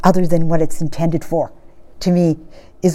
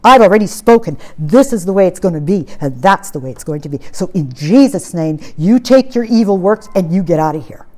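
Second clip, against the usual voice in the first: lowered, emphatic rebuke with restrained indignation; indignant; 3 semitones lower than usual. Acted. Showing listeners how to rebuke the devil, indignant. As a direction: order the devil out, firmly and indignantly. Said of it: "You need to get that indignation".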